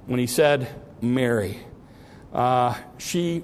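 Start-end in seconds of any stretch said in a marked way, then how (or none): 1.0-1.6 tenderly. Retold or imitated. Jesus gently calling weeping Mary by name, tender. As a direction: gently call her by name. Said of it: "I think he said it very tenderly".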